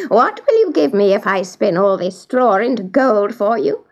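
lightly voiced dwarf, bargaining; little dwarf. Dwarf offers to spin straw for Eloise, lightly voiced.

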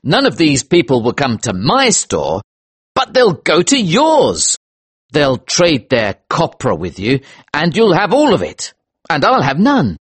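high, agitated accusation; bitter, emphatic grievance, pitch swooping; angry cry. Acted. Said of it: "I cried angrily".

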